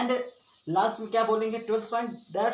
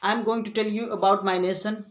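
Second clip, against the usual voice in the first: measured public-speaking delivery; model school speech; 2 semitones higher, much slower than usual. Shown as a demonstration. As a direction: announce the topic like a student on stage.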